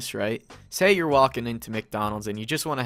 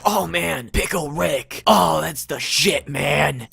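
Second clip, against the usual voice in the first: a touch louder, slow dopey fan voice; 3 semitones higher, 5 dB louder, slower than usual. Retold or imitated. Imitating a dopey fan raving about Pickle Rick, slowed and dopey. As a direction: lazily savor the words like a stoner fan. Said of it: "people could have this initiative that go".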